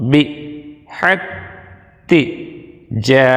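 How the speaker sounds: slow, each Quranic syllable said apart with pauses. Shown as a demonstration. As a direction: break the verse into separate syllables. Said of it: "যেমন দেখুন". (ভাঙ্গা ভাঙ্গা, ধীরে আলাদা আলাদা অক্ষরে)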